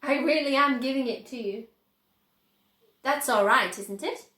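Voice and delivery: beam as you say it; Mr Wonka voice. A narrator's reading. Wonka assuring Grandpa Joe, smiling.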